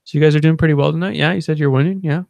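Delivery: high, loud, quick chatty server voice; imitated bartender. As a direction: chat them up in a put-on high voice. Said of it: "And she's just like".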